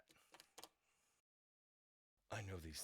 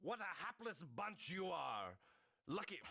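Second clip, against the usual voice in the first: character line; 7 semitones higher than usual. Acted. Voice actor reading a character.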